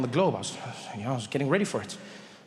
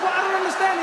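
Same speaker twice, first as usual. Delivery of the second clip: baffled; 12 semitones higher than usual. Retold or imitated. Trevor baffled.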